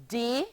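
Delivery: "de-ci-ded" split into three slow syllables; each syllable of "de-ci-ded" spoken apart. Shown as a demonstration. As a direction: tap out "de-ci-ded" one syllable at a time. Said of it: "forming three syllables".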